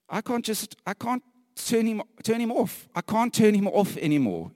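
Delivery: impassioned preacher's cry; rising passion. Real, not acted. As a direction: press harder each time. Passionate building declaration.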